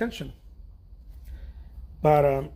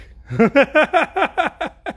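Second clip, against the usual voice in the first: high, loud burst of laughter; big laugh, rising in pitch; real hearty laugh; 10 semitones higher, 9 dB louder than usual. Real, not acted. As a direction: crack up loudly. Laughing about good-looking French chef.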